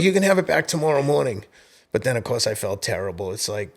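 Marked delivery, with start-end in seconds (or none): 0.0-1.4 firm parent. Retold or imitated. Dad laying down the rule.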